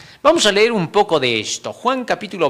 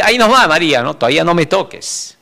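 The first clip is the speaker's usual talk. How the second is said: firm warning; 4 dB louder than usual. Pretend. Jesus holding Mary back.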